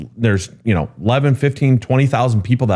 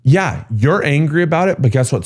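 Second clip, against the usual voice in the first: higher-pitched mock exasperation; mildly exasperated retort, pitched up; acted frustration; 8 semitones higher than usual. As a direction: voice shared frustration with an upset caller. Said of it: "frustration that we're just like".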